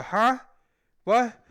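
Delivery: high, loud, startled yelp; re-enacting his own flustered reply; nervous confusion. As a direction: blurt it out, rattled by the yelling. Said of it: "he made me very nervous".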